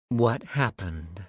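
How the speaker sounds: slow, calm and even; much calmer tone. A narrator's reading. Jez asks Zeke calmly after the stabbing. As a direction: settle the voice after the killing. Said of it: "in a much calmer tone".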